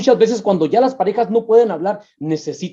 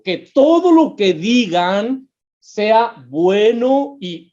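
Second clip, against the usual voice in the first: slow scripture reading; 3 dB louder, slower than usual. Acted. Preacher rereads verse slowly.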